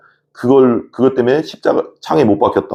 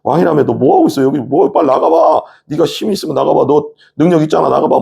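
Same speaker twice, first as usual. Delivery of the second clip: higher-pitched goading; mocking dare; 6 semitones higher than usual. Soldiers daring Jesus to use his power, mocking. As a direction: egg him on derisively.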